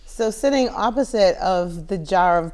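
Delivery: loud laughing description. Real, not acted. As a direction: talk through laughter.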